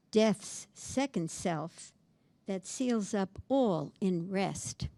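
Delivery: poem recital. Acted. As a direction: let the night fall in the voice. Reading second quatrain.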